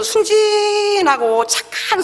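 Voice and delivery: slow, stretched-out emphasis; drawn out. Real, not acted. Preacher describing the kind customers, slow drawn-out emphasis. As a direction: linger on each adjective, pitched high.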